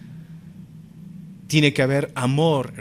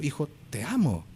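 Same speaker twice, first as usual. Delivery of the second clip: tender confession; 7 dB quieter than usual. Retold or imitated. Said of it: "le puede costar decir".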